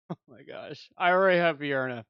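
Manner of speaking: high laugh into a sigh; laughing disbelief. Real, not acted. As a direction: laugh at the bad luck. Reacting to the wrong hero.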